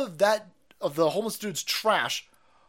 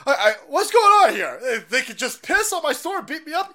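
mock victim laughing; 8 semitones higher, 6 dB louder than usual.

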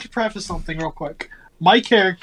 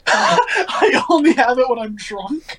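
amused disbelief; 4 semitones higher, slower than usual. Real, not acted. Laughs at game master's accent rule.

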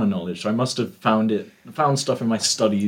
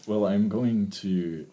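put-on slow, slipped-in Scottish accent; 4 dB quieter, much slower than usual. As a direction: drift into a Scottish brogue. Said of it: "I don't know why I went Scottish".

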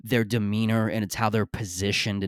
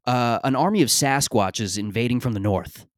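raised voice, listing absurd fears in earnest; mock absurd worry; 2 semitones higher, 3 dB louder than usual. Comic imagined reply to hookah bar guys, mock earnest alarm. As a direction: play it like a doomsayer airing a silly worry. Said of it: "as if I had just said".

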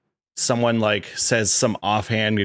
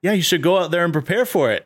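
heel Teddy Long; 8 semitones higher than usual. Retold or imitated. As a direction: gloat like a heel general manager handing out a match. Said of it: "the heel side of Teddy Long".

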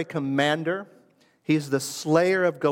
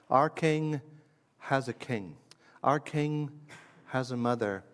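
hushed awe; 6 dB quieter than usual. Real, not acted. Hushed reflective emphasis.

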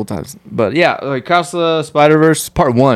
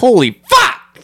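high, drawn-out outburst of awe; amazed exclamation; 10 semitones higher, 3 dB louder, much slower than usual. Retold or imitated. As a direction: relive being blown away, slow and high. Retells his amazed reaction.

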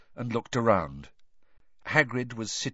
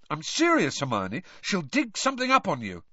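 higher, anxious warning; nervous; 6 semitones higher than usual. A narrator's reading. Ron warns Hermione of digging, nervously. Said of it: "said Ron nervously".

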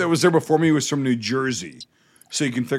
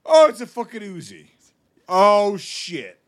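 mock-thrilled gasp at finding an Uzi, higher and louder; excited; 5 semitones higher, 4 dB louder, slower than usual. Pretending to find an Uzi in a car trunk, excited. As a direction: act giddy over a gun in a trunk. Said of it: "I was like".

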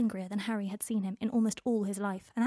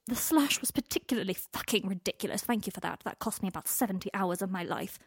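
malicious mocking read; 3 semitones higher, 3 dB louder than usual. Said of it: "long and lethal with malice".

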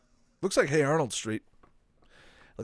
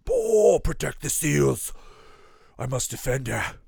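lightly hammed-up defender voice; mock heroic protector; 4 dB louder, slower than usual. Playing along as the seals' defender, mock heroic. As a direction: play at being a dramatic protector.

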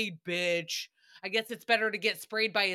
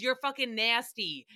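blunt disgust. Pretend. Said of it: "what I wanna say is".

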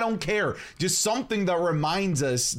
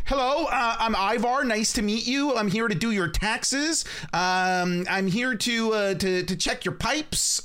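higher-pitched mock ordinary dude; Ivar; 5 semitones higher than usual. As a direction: introduce yourself like a polite handyman, pitched up. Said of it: "sound like just a dude".

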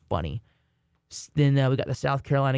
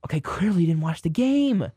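retold retort; 4 semitones higher than usual. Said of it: "And I'm like".

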